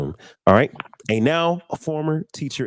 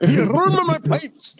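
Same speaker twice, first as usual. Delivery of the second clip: put-on Scottish accent; slower than usual. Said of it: "with the Scottish guy".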